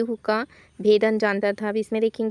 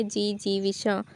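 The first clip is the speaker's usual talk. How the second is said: जी जीविशा slowed down and softer, each syllable clear; slow, careful; 4 dB quieter, slower than usual. Shown as a demonstration. Teacher repeating the word slowly so students catch it. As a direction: say जी जीविशा slowly and softly to show the spelling. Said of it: "तो जी क्या है".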